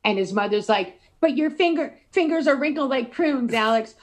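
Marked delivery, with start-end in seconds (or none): 1.2-3.9 lightly voiced mother. Voicing the mother.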